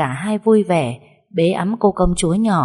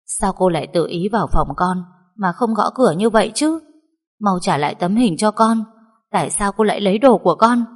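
angry shout; 3 semitones higher than usual. Acted. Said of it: "Tức giận, Mây hét lên".

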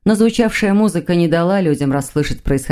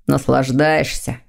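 sarcastic; 4 semitones lower, slower than usual. Acted. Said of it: "язвительно заметил Дамиан".

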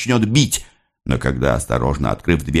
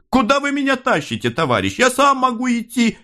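with a smirk. A narrator's reading. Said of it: "с усмешкой в голосе".

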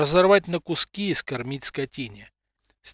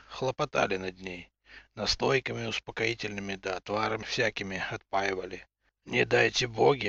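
low, tired father voice; heavy-hearted low father; weary father; 5 semitones lower than usual. Acted. Father explains mother's state.

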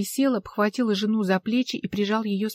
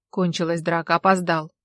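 through gritted teeth; 4 semitones lower than usual. Acted. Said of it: "процедила сквозь зубы Алла".

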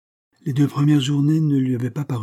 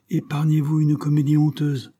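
higher, irritated cut-in; stern interruption; 6 semitones higher, 4 dB louder than usual. A narrator's reading. Irritated father interrupting his son, stern. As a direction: cut him off angrily. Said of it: "interrompit monsieur Berthomy".

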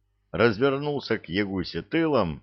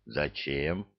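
surprised; 5 semitones lower, 7 dB quieter than usual. A narrator's reading. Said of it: "удивился домовой".

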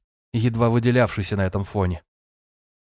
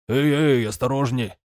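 quick raised warning; alarmed call; 3 semitones higher than usual. Acted. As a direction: catch him with a sharp call. Sailor catches falling man.

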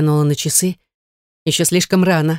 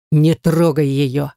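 roar; 2 semitones lower, slower than usual. A narrator's reading. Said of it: "взревел Давид".

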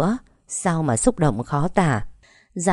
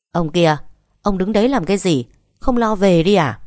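loud impatient call, louder at the end; shouting for husband; 3 semitones higher, 4 dB louder than usual. Acted. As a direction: yell across the yard at the husband. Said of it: "gào lên gọi chồng". (bà Nhật gào lên gọi chồng)

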